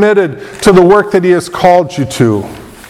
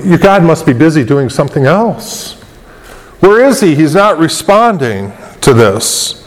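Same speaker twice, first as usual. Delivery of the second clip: lightly taunting, question pitched up; mocking. Preacher voicing Elijah's taunt at Baal's prophets, mocking. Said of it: "he's mocking them, saying".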